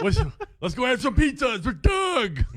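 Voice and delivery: slow, loud, high zombie voice laughing. Pretend. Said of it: "I like my zombie voice".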